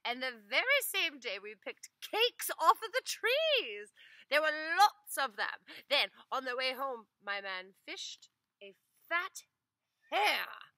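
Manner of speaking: high, loud rush of eager telling; wife eagerly telling the master everything. Acted. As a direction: blurt it all out eagerly. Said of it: "said the wife eagerly".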